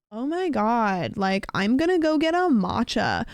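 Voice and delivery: hammed-up California valley talk; cartoon California accent. Shown as a demonstration. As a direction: do a joking California accent, stretching the vowels. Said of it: "a cartoon version where it's like".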